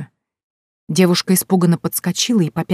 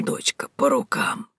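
slow, softer whispered repeat; whispered agreement; 6 dB quieter, slower than usual. A narrator's reading. Old woman agreeing to the deal, whispered. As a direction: seal the deal in a breath.

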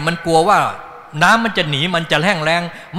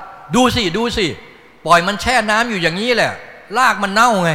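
higher, louder complaining plant voice; plant speaking; 5 semitones higher, 4 dB louder than usual. Pretend. The plant tells the teacher its roots rot, higher complaining. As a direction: voice the plant scolding about rotting roots.

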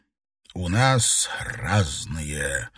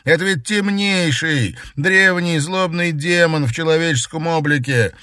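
angry pleading; 9 semitones higher, 5 dB louder than usual. Acted. Brother angrily warns sister.

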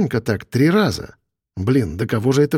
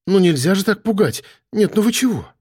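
high, shaken scolding after a fright; startled reproach; 6 semitones higher than usual. Acted. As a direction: scold him, still jumpy from the scare. Испуганная девушка упрекает. (испуганный упрёк)

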